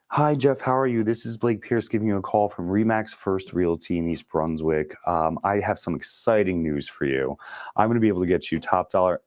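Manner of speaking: bright, scripted salesman opener, pushing; canned sales pitch. Shown as a demonstration. Agent cold-calling Jeff with a stiff, salesy pitch. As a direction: sound like a pushy realtor reading a script. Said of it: "You probably already hung up".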